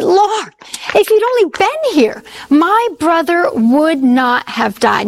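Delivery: Mary pleading with Jesus in grief; anguished plea. Acted. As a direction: let Mary's grief break through, then slow. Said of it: "She's saying".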